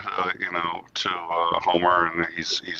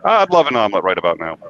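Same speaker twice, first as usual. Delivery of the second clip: dismissive Homer; 5 dB louder, faster than usual. Retold or imitated. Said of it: "He goes".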